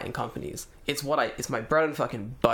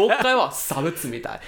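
angry Japanese; 4 semitones higher, 6 dB louder than usual. Retold or imitated. Angry rant in Japanese at agent.

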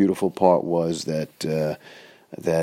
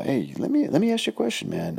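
pitched way up, a friendly hey man; mock high voice; 10 semitones higher, faster than usual. Asking the new friend what he does, pitched way up. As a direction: voice shoots up to ask him casually. Asking the big guy a question.

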